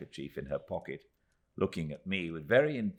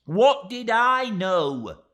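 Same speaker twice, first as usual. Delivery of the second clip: very high, loud and slow; tearful outburst; 12 dB louder, much slower than usual. Acted. Miss Moucher to David, loud and high near tears. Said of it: "said Miss Moucher, taking out her handkerchief".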